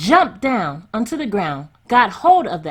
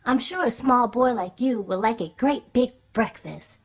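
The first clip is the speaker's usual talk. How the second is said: 1 giant's wife; 5 semitones higher than usual. A narrator's reading. Woman greets Jack kindly.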